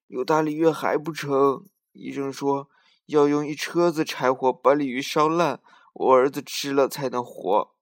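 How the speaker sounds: grieving grandmother. Acted. Grandmother asks for firewood.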